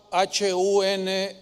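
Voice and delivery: each letter slow and separate; spelled out slowly. Shown as a demonstration. Pastor spelling the name for the congregation to search, slowly. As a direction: spell it so they can type it. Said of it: "Ponga en YouTube".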